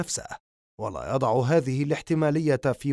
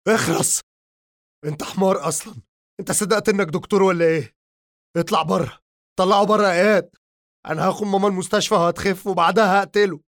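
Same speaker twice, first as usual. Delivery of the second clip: high, loud, fast raging shout; furious yelling; 5 semitones higher, 5 dB louder, faster than usual. Acted. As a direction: rage at him, louder and faster. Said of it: "لكمة قوية من عمر".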